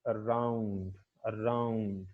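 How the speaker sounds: slow around, weight on "round", pitch falling; stress on second syllable. Shown as a demonstration. Teacher repeating the example word for students, around stressed on its second syllable. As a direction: stretch the second half of around and let it fall. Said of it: "second syllable is more prominent".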